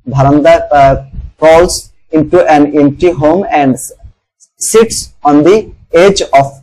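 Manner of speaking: slow, careful read-aloud of a story passage; steady classroom reading pace. Acted. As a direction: read each English phrase slowly for students to follow. Teacher reads English text aloud.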